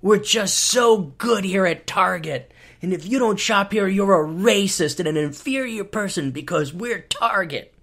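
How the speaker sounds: slow, preening smugness; smug mock Target. Comic mocking a smug Target store, slow and preening. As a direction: drag it out, smug and self-satisfied. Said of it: "this smug".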